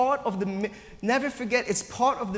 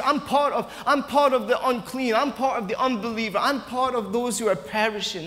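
cursing himself, raised; 4 semitones higher than usual. Retold or imitated. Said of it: "A curse".

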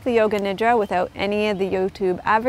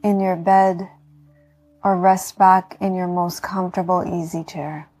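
guided meditation. Acted. Yoga teacher talking listeners into healing rest, calm meditation voice.

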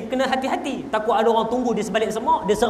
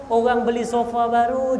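rising setup; 5 semitones higher than usual. Acted. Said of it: "Sebab isteri saya".

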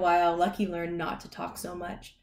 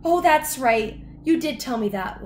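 high, loud, chatty dog voice; reply brightly as a friendly dog; high-pitched talking dog; Lucky the dog; 7 semitones higher, 7 dB louder than usual. A narrator's reading. Lucky replies cheerfully.

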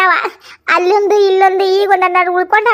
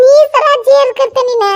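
stern mother-in-law; 2 semitones higher than usual. Retold or imitated. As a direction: echo the mother-in-law's threat. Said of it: "ನಮ್ಮ ಅತ್ತಿ ಹೇಳೇ ಬಿಟ್ಟಿದ್ಲ". (ಅತ್ತೆಯ ಗದರಿಕೆಯ ಅನುಕರಣೆ)

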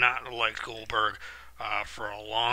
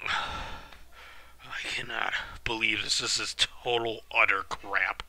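deflated whisper; 5 dB quieter, slower than usual. Real, not acted. Sighs after the loss.

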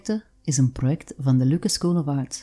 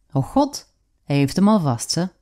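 hoog uitgeroepen, speels ondeugend; Oh god hoog uitroepen; uitroep in Gents dialect; 3 semitones higher than usual. Retold or imitated. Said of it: "riep ze uit". (hoge, ondeugende uitroep in Gents dialect)

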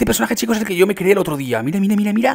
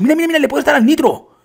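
high, loud, eager call; excited discovery; 9 semitones higher, 6 dB louder than usual. Real, not acted. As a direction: urge viewers to look, pitch jumping up. Discovers nitro while falling.

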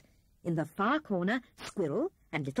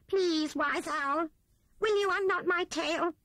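pleading Rat; 10 semitones higher than usual. A narrator's reading. Rat begging Owl to unknot his tail, pleading. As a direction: beg with folded paws. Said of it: "in a supplicating way".

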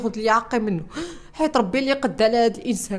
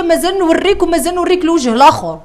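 husband's threat; 5 semitones higher, 8 dB louder than usual. Retold or imitated. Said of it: "وتيقول لي".

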